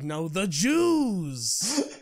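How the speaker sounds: slow, flat imitation of the old man; lightly voiced old customer; deadpan old man. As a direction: drag out the punchline slowly. Retold customer's punchline.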